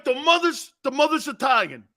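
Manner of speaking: high-pitched imitation of astonishment; amazed grandfather. Grandfather hearing about Franco's mother, amazed.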